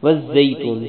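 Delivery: والزیتون with ز hard and doubled; careful demo word والزیتون; firm zay. Shown as a demonstration. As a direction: press the ز in والزیتون. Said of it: "زا کو سختی سے پڑھیں گے".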